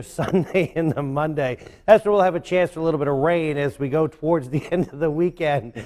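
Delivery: anchor stifling giggles. Real, not acted. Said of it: "can't keep a straight face".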